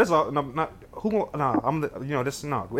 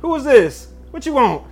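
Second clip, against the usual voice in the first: higher-pitched playful challenge; mock interrogation; 4 semitones higher than usual. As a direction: demand answers in mock suspicion. Playfully interrogates woman in game.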